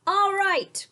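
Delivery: high, loud burst of agreement; mayor's cry. A narrator's reading. The mayor cries out, won over by Sophia. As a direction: shout it out with delight. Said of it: "cried the mayor".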